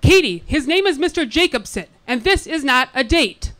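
lightly voiced scolding mom; mother's voice. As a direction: correct her like a mom. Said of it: "my mother's voice in my ear".

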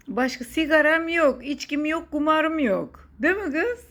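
put-on regional Turkish accent. Joking with her daughter about her hobbies in a southern Turkish accent. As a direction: lay on a southern Turkish twang for fun. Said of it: "Sana bu şive nereden yüklendi?".

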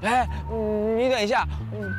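usual speaking voice

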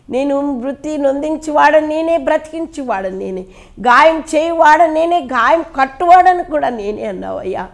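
fervent prayer. Acted. Pastor praying over the congregation, fervent pleading. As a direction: pray aloud to God, rising and falling with feeling.

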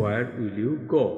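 very slow, words drawn out for learners; slow tense drill read to a class. Shown as a demonstration. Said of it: "এইভাবে করে আপনি tense অনুযায়ী".

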